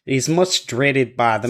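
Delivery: lightly put-on Australian accent. Podcaster reading an old bunyip record, Australian accent. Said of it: "another great accent".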